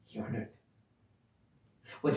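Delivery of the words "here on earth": a soft, sinking afterthought on "Here on earth"; quiet echo. Real, not acted. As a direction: repeat "Here on earth" much softer, almost under the breath.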